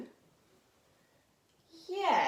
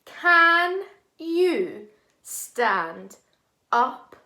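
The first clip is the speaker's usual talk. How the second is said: emphatic; 9 dB louder, much slower than usual. Shown as a demonstration. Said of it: "our sentence was".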